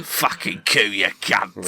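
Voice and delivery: lightly voiced cockney pigeon coo; London pigeon voice. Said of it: "London pigeon".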